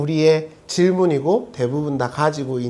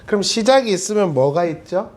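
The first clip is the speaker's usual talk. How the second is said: usual speaking voice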